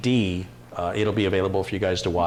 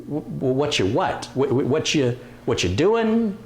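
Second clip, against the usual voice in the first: puzzled stammer; 3 semitones higher than usual. Retold or imitated. Retelling his confused reply to Brian.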